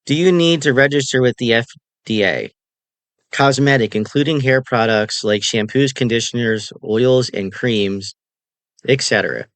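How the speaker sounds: talking around a hard candy; reading with candy in the mouth; mouth full. Real, not acted. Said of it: "I have a Jolly Rancher in my mouth".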